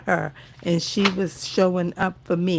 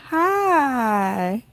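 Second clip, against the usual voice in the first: tearful; 4 semitones higher than usual. Real, not acted. Tearful greeting to old supporter.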